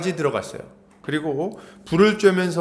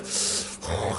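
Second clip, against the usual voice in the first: long breathy blow against the cold; imitated huff of someone freezing; soft, voiceless puff of cold breath; chilly exhale; 9 semitones lower, 10 dB quieter than usual. 추위에 입김 부는 흉내.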